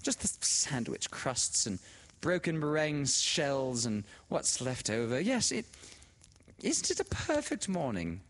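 put-on high, gushing society-girl voice; bubbly, delighted telephone talk; excited phone chatter. A narrator's reading. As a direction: greet a dear friend in a loud, high gush.

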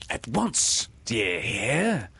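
a captain who won't be questioned; cried order. Acted. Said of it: "cried Peter".

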